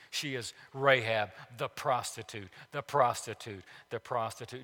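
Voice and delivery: "the prostitute" repeated with weight each time; repeated emphasis. Shown as a demonstration. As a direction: hammer home "the prostitute" by repeating it. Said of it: "Do you see the emphasis?".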